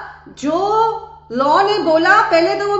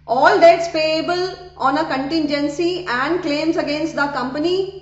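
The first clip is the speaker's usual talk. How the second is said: slow, deliberate reading of legal text; measured classroom read-aloud of a law section; slow statute reading; much slower than usual. Acted. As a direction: read the clause out word by word for students.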